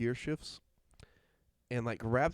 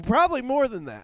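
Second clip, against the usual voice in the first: excited; 11 semitones higher, 8 dB louder than usual. Real, not acted. Exaggerating the mask pile.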